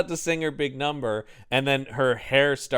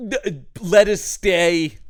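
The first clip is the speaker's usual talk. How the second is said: hesitant comic plea from offstage; slow Phantom plea; 4 dB louder, much slower than usual. Retold or imitated. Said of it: "off-camera voice of the Phantom going".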